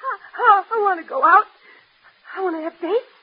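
tearful, stammering plea; halting sobbed longing, spilling into a run of self-reproach; crying. Acted. Daughter aching for dates like others, crying. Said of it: "please stop crying".

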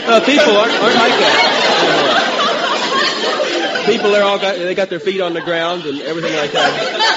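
laughing through it. Real, not acted. Denying while laughing.

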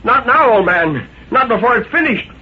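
high, alarmed objection; loud protest. A narrator's reading. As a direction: protest in sudden fear, pitch climbing high. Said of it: "he said loudly".

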